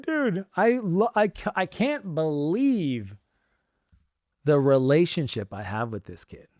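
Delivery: fighting back real tears, halting; choked up. Real, not acted. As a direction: voice high and breaking, slowed by emotion. Father moved telling son story.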